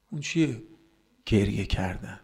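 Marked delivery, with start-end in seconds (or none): 0.1-0.6 softened repeat question. Real, not acted. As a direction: ask it quietly, letting it sink in. Rhetorical question repeated softly. (پرسش آرام و آهسته)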